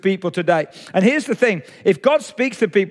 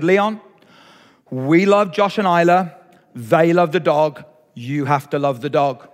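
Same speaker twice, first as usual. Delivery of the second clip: wife's gentle voice; 5 semitones lower than usual. Retold or imitated. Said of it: "she said".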